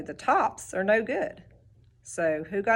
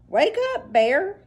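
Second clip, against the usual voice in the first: high call to wake a sleeper; 10 semitones higher, 5 dB louder than usual. A narrator's reading. Hare calls to the sleeping Bear, high calling out. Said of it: "Hare called out".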